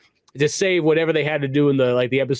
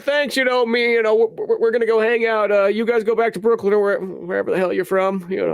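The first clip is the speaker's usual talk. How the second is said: mock airy princess; 6 semitones higher than usual. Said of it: "She's like".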